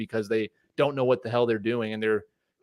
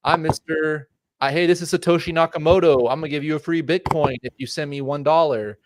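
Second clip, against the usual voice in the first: a hint of a slick con man; mock scammer pitch; 4 semitones higher than usual. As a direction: lightly play a scammer baiting a victim. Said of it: "someone that says".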